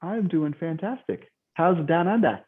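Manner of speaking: playful put-on Australian accent, slow; mock Australian accent. Mock Australian accent greeting a friend from Australia. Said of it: "We're not doing accents today".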